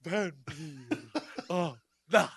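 hammed-up vampire with long pauses; Dracula. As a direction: stretch it out like an old film vampire. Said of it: "He's like".

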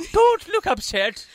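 very high, slow, loud mock-Scottish voice; mock Scottish accent. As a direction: exaggerate a bad Scottish accent, drawn out. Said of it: "did your best, best, like, Scottish accent".

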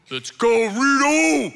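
loud, high sideline shout; booming proud-dad cheer; dad yelling encouragement. Retold or imitated. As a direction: holler it across the field like the loudest dad. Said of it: "he has the loudest voice".

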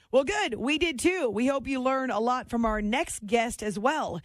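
upbeat station ID and sponsor read; radio host read. Acted. Radio host thanking listeners and reading an ad, announcer style. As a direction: sell it like a host going to break.

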